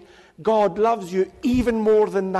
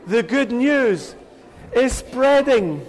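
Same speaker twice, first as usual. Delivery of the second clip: slow, laughing announcement. Real, not acted. Leader to giggling children, slow and laughing. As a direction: let a laugh carry the words.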